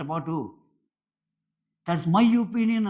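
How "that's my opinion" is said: slow, drawn-out, much higher and louder mock declaration; mock self-important quote. Reviewer mimicking Srija's closing line, slow and loud in mockery. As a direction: stretch it out smugly like a final verdict.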